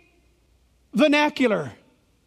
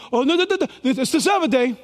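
legalistic person; faster than usual. Retold or imitated. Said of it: "A legalistic person will say".

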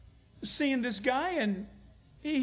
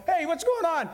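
mock startled shout, higher and louder; startled outburst; 7 semitones higher, 3 dB louder than usual. Preacher mimics a driver after a fender bender, mock alarmed. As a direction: act out the shock of the dent.

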